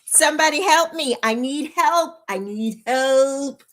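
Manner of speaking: half-joking cry for help; mock plea. Streamer begs viewers for tech help, mock pleading. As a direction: plead playfully, stretching the last plea.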